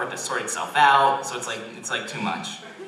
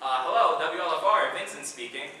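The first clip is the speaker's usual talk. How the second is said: lightly acted phone greeting, pitched up; businesslike station pickup, trailing softer; professional; 5 semitones higher, 5 dB quieter than usual. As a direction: answer like a radio station professional. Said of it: "I say, all professional".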